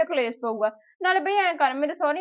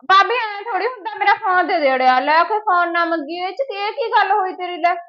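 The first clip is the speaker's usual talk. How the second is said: raised, indignant demand for her phone; angry protest; 4 semitones higher, 5 dB louder than usual. Acted. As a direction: push back hard at the sister-in-law, louder. Quarrel with sister-in-law over phone. (ਗੁੱਸੇ ਨਾਲ ਉੱਚੀ ਬੋਲਣਾ)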